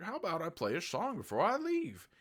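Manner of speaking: high, sugary mock singer voice; sweetly stalling singer. The singer sweetly stalls the killer before leaving, high and sugary. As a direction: stall him with fake sweetness.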